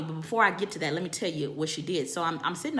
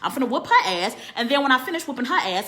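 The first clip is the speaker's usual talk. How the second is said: angry retort; 3 semitones higher, 6 dB louder than usual. Retold or imitated. She yells back at husband.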